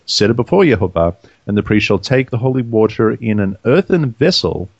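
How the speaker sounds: measured, formal Bible reading; scripture reading. Real, not acted. Reader gives the law of jealousy to co-hosts, measured scripture reading. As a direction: read the verses out deliberately, pausing between phrases.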